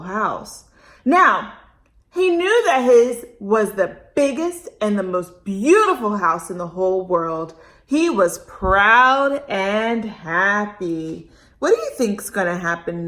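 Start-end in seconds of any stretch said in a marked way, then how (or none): 1.0-11.3 put-on bright, expressive read-aloud for kids; lively storytime narration; storybook reading. A narrator's reading. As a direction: read it like a picture book to a child. Reads story to children.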